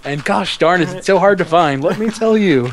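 a hint of gee-whiz customer; hokey polite voice. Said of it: "I got a white boy voice".

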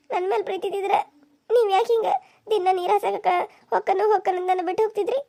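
tearful accusing plea; hurt, weepy reproach; acted crying. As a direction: plead through acted sobs. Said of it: "ಈಗ ಯಾಕೆ ಆಳಾಕತ್ತಾಳ?".

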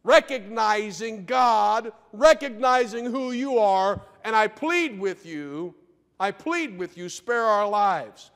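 slow, earnest begging; humble plea. Retold or imitated. Captain humbly begging the prophet for mercy.

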